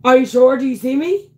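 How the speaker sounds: urgent, high-pitched checking; real startled alarm. Real, not acted. Streamer checking viewers can see her, real alarm. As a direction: ask anxiously, needing to be sure. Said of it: "that was like a heart attack".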